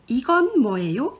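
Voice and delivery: quick run-through of 이건 뭐예요; fast model sentence. Shown as a demonstration. Teacher modelling the first sentence for students, quick. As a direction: rattle off 이건 뭐예요 at speed. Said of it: "La première phrase".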